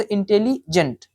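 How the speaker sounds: इंटेलिजेंट slowly, in two parts; syllable demonstration. Shown as a demonstration. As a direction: split इंटेलिजेंट slowly after the "li". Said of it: "लेकिन double syllable".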